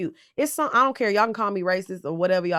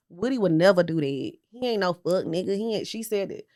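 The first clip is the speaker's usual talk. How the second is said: mock Diane Keaton; 4 semitones lower, 5 dB quieter than usual. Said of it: "she said it just like this".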